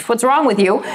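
mock scolding. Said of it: "scold them and be like".

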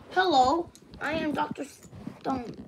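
a hint of a solemn doctor greeting; doctor character. Doctor greeting the visiting kids, lightly voiced. Introduces self as game doctor.

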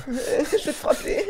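high, slow, laughing through the words; helpless high-pitched laughter in the voice; laughing threat. Real, not acted. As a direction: threaten him while cracking up. Cracks up while mock-threatening.

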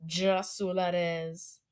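slow Turkish-style "Jasul Arraez"; Turkish pronunciation. Retold or imitated. Language learner echoing a Turkish voice, slow Turkish accent. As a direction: copy a Turkish reading of the name, drawn out.

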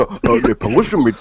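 low, laid-back rapper imitation; lightly voiced rapper greeting; rapper's voice. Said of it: "래퍼님이랑 목소리 똑같이 하셨네". (래퍼 목소리 흉내)

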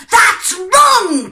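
high, loud wolf cry. A narrator's reading. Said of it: "cried the wolf".

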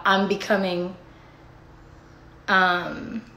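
losing the thread mid-sentence; trailing off. Real, not acted. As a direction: voice fades as the thought slips away. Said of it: "I forgot what I was saying".

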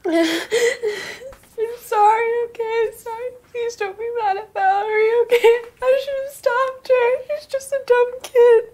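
crying through apologies with small laughs; tearful apology. Acted. Sister apologizes tearfully to mother for Valerie.

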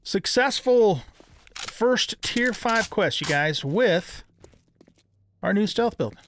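slow, high proud announcement; drawn-out victory declaration; triumphant announcement. Real, not acted. Announcing quest success.

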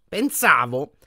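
put-on lightly haughty old portrait voice; sneering portrait. A narrator's reading. Portrait needling Harry, mildly haughty.

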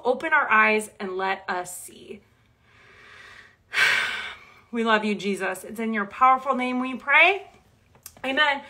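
earnest, steady prayer voice. Acted. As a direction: pray sincerely for the group. Leads closing prayer.

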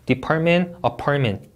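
'department, apartment' with T running straight into M; no vowel after T. Shown as a demonstration. Teacher repeating the model, no added vowel. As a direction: keep out any extra vowel before '-ment'. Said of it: "트 해주시면 안 돼요".

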